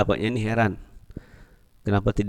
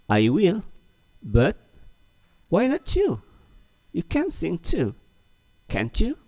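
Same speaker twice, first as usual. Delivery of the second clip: raised, pleading friend's voice; high, coaxing read of a dialog line; acted dialog line; 10 semitones higher than usual. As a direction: coax a friend into singing. Teacher reads a dialog line aloud.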